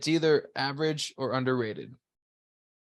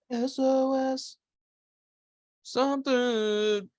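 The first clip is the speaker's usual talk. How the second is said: slow, high mock Jamaican accent; half-hearted Jamaican accent, drawn out; 12 semitones higher, much slower than usual. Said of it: "not gonna try to do a Jamaican accent".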